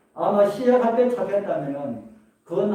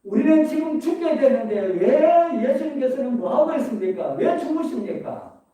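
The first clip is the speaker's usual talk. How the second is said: higher-pitched quote of a cry; Peter's outcry retold, raised pitch without full shouting; mild retold cry; 6 semitones higher than usual. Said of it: "이렇게 소리쳤던 베드로가". (살짝 높인 목소리로 외침을 흉내 내듯)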